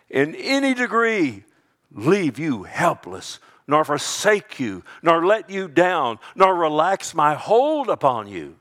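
loud, high-pitched preaching; emphatic proclamation. Acted. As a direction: ring out each clause with force. Preacher builds emphatic promise.

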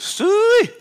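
high shrill-free loud calling yell to the cows; hog call. Retold or imitated. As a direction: call the hogs across the farm. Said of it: "and she goes".

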